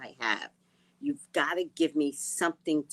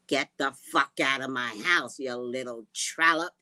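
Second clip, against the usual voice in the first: mock grandma yell; 3 semitones lower, 6 dB louder than usual. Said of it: "grandma kicking out".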